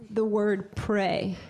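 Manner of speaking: speaking "pray" slowly; slow spoken pray. Shown as a demonstration. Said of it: "What happens if I have".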